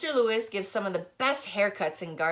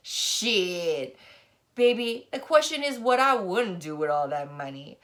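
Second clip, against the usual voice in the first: put-on sassy old lady; 3 semitones higher, 3 dB louder than usual. Old lady customer voiced.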